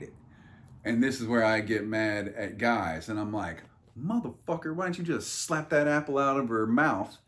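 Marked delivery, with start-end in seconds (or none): 4.0-7.2 exasperated rant. Retold or imitated. Ranting at Adam in Eden.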